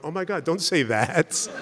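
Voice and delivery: slow mock-alarmed "oh my God"; retold shock. Student recalling his reaction to the disciple's confession, mock alarm. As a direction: play his own startled protest, hammed-up. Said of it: "my first reaction was".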